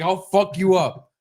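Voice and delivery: high, drawn-out threat; retold screaming. Dad threatening the neighbor, retold yelling. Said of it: "I was fucking screaming at this guy".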